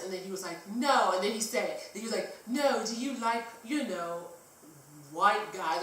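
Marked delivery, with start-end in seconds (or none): 0.8-1.1 louder, higher mock British no; badly faked British interjection; bad British accent. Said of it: "my really bad British accent". 2.5-5.8 badly faked British accent, halting; tipsy mock British question. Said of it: "my really bad British accent".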